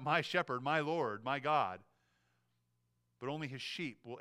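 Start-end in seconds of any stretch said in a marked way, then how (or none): 0.0-1.8 understated cry of acclamation; mild crying out. Acted. Everyone kneeling before Christ, mildly voiced cry of worship. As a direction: call out each title in a measured beat. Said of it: "We'll all cry out".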